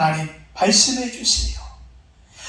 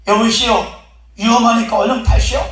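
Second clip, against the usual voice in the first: urgent calling; 3 semitones higher, 4 dB louder than usual. Acted. Rescuers urge him aboard.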